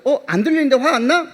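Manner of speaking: laughing startled question. Retold or imitated. Pastor asking student why she is not angry, laughing disbelief. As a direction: ask in amused disbelief.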